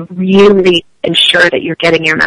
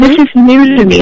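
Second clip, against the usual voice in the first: "is" lifted and a bit louder; graceful phrasing; 5 semitones higher, 4 dB louder than usual. Shown as a demonstration. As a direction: lean into "is", keep it light. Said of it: "a really graceful way to say".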